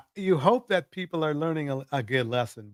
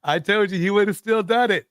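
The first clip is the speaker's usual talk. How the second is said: laughing I-told-you-so; teasing laugh at a friend; 5 semitones higher, 3 dB louder than usual. Real, not acted. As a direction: gloat through a laugh.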